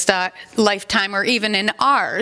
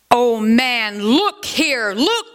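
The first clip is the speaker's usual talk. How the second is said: exclaiming Spirit; 3 semitones higher, slower than usual. Acted. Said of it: "exclaimed the Spirit".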